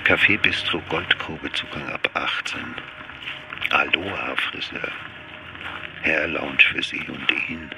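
ordinary talk, nothing marked

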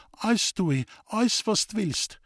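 put-on high, yielding voice of the girl; lightly voiced young woman. Lisbeth yielding to Roman in a lightly voiced high girl's voice.

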